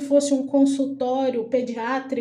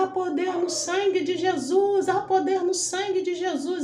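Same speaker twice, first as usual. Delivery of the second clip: retold cry of faith; 7 semitones higher than usual. Dreamer crying to the doctor against evil, retold cry. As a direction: repeat it as a high, urgent declaration. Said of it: "Eu gritava".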